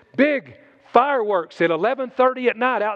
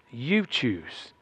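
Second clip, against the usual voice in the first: quiet repeat; 9 semitones lower, 7 dB quieter than usual. Shown as a demonstration. Preacher repeating the point softly to the congregation, lower and quieter. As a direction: lower and softer "You choose".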